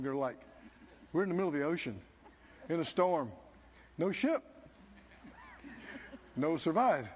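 low, soft, quick hopeless mutter; gloomy sailors. Acted. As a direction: let it sink, mumbling despair.

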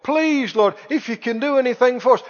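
imitated pleading prayer, stretching "please"; lightly acted begging; mock beseeching. Christians beseeching the Lord in prayer, imitated pleading. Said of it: "they're beseeching the Lord in prayer".

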